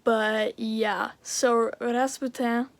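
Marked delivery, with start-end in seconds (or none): 1.8-2.7 put-on light French accent on the name. Vlogger naming a pet frog, in a light French accent. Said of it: "I say with a French accent".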